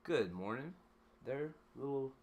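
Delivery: big booming hello to the little lady; hearty shouted good morning; loud cheery greeting. Real, not acted.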